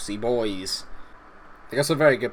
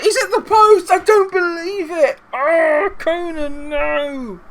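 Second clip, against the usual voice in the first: very high, loud wail; anguished disbelief; 9 dB louder, much slower than usual. Real, not acted. Gamer watching Conan hit the post, anguished shout. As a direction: cry out in stretched, agonised shouts.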